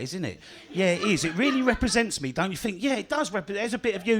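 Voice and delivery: delicate little butterfly, lightly voiced. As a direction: play a dainty butterfly showing off. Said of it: "This is my impression of a butterfly".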